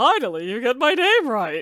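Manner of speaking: put-on dolphin character voice. Retrying a better character voice for the dolphin, in a dolphin character voice. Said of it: "I can do a better character voice than that".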